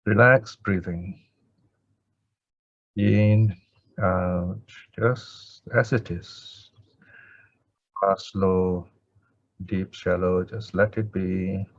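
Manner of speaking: spaced-out meditation cues with long pauses; guided meditation. Acted. Teacher guiding students to let the breath be, meditative pacing. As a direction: ease them into watching the breath, letting each phrase settle.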